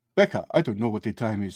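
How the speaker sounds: put-on South African accent. Quoting a man speaking to becca, in a south african accent. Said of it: "He's like South African".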